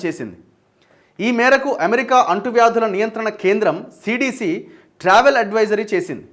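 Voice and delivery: steady, formal news-reader delivery. Acted. Anchor reading viewers a US travel alert, news read. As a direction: read out the bulletin in measured phrases. Reads a news report aloud.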